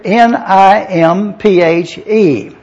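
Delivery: letters spelled out slowly, N I M P H E; N I M P H E spelled letter by letter for the congregation. Shown as a demonstration. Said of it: "the word bride here is the word".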